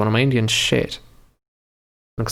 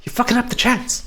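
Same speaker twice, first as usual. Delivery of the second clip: higher, animated exasperation; mock scolding; 7 semitones higher than usual. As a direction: coach a shy friend, exasperated. Mock scolding shy character.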